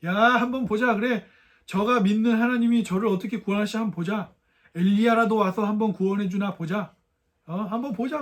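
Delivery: retold crowd's jeer; mocking. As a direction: mildly act out a taunting dare. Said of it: "그래서 엄마 얼마나 조롱했어요". (비아냥대듯 흉내 내는 말투)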